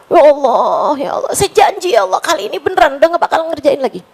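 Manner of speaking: quick, rushed mock-sobbing plea; retold tearful pleading. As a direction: rush the promise as if weeping, lightly. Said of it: "Nangis lagi". (doa sambil menangis yang ditirukan, cepat)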